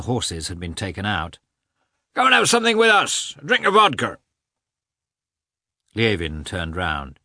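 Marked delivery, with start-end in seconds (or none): 2.1-4.2 peasant's invitation. A narrator's reading. Peasant invites hunters to drink.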